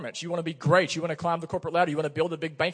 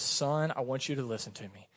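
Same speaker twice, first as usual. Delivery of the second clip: patient; 5 dB quieter than usual. Acted. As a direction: gently ask a son to listen. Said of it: "He comes to Jonah patiently".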